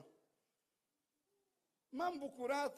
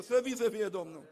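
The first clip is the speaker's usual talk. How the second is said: praise shout; 3 semitones lower, 7 dB louder than usual. Acted. Praise exclamation in sermon.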